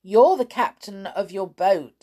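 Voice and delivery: lively calling voice; teasing shout. A narrator's reading. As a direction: shout it out mockingly. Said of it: "shouted Amelia".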